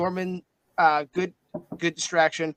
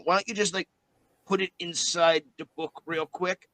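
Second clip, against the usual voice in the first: a hint of a cheeky creature voice; Winston the familiar. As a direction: play the eager little familiar.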